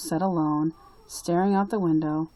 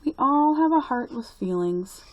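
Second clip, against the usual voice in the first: put-on high, eager little-girl voice; a small girl telling her grandpa; little Lucy asking her grandpa, raised high; young girl Lucy; 6 semitones higher than usual.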